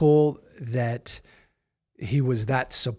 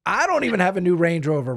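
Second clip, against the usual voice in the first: louder, higher jealous grumble at his new car; hammed-up envy of a rival who resents your success; mock envious complaint, a bit louder; mock jealous rant; 4 semitones higher, 3 dB louder than usual. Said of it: "their own insecurities come out".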